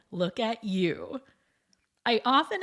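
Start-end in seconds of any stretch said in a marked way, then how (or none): 0.1-1.2 lower, slower, generous greeting; look-at-you greeting. Retold or imitated. Kind partygoer greeting others, lower and slower. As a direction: turn the spotlight onto the other person. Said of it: "those who enter shouting".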